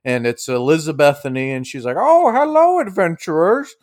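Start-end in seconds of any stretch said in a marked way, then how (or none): 2.0-3.7 put-on high, lilting old-lady voice; old lady innkeeper. Innkeeper welcoming adventurers back, high old-lady voice. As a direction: greet them in a high old-woman voice. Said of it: "the same old lady's tending the counter".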